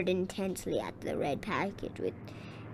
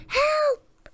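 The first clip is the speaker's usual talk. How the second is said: high piercing shriek, louder; 6 dB louder than usual. A narrator's reading. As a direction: scream for help. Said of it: "shrieked Rosie".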